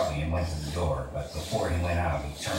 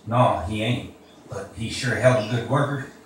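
proud vouching; 6 semitones higher, 6 dB louder than usual. Acted. George vouching loudly for Lenny.

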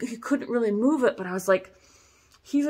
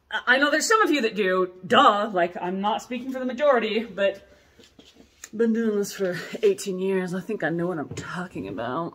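sassy. Real, not acted. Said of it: "That was really sassy".

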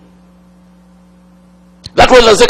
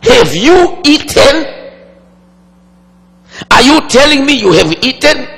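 shocked; 4 semitones higher than usual. Retold or imitated. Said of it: "And Adam was shocked".

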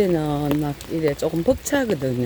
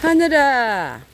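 slow, drawn-out call, louder; 7 semitones higher, 4 dB louder, much slower than usual. Real, not acted. Calling the cat Haneul, slow drawn-out call. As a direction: stretch the name out to reach the cat.

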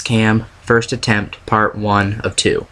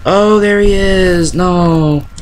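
startled; 7 semitones higher, slower than usual. Real, not acted. Jump scare in horror game.

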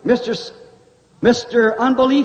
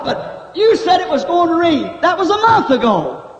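mocking scoffer.

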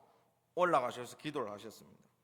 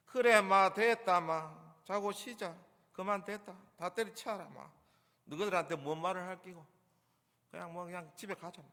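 fed-up Gyeongsang scolding, loud at first; exasperated Gyeongsang accent, pitched up then trailing away; Gyeongsang dialect; 2 semitones higher, 3 dB louder than usual. Shown as a demonstration. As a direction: brush them off in blunt Gyeongsang speech. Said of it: "경상도 버전으로 이 말씀을 읽으면".

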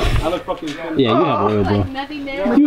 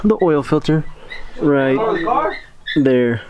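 talking from under the car; lying on your back under a car. Real, not acted. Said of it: "I'm under the car right now".

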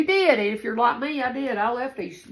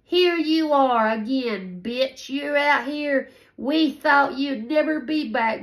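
mocking hater's taunt; 4 semitones higher, slower than usual. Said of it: "somebody said".

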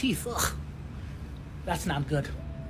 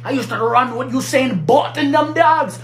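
boasting in a fake Jamaican accent; put-on Jamaican. Telling a doubting friend about family in Jamaica, put-on Jamaican accent. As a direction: claim island roots in faked Jamaican. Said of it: "put on this little accent".

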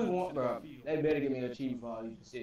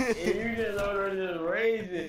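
laughing; 4 semitones higher, slower than usual. Real, not acted. Laughing at raging teammate.

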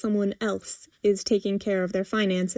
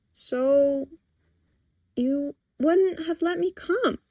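slow, higher, pointed insistence; insistent; 6 semitones higher, slower than usual. A narrator's reading. Daughter pressing her point to mother, insistent. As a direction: press the point after a drawn-out start. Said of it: "Priscilla insists".

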